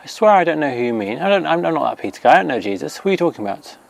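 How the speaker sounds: high, rushed mock panic, lightly voiced Peter; a hint of a cornered man denying everything; flustered denial. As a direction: babble your way out of it. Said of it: "And Peter's like".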